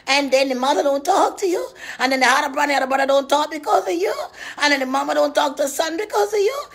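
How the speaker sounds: fast, laughing through the words; laughing rant. Acted. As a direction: rattle it off cackling.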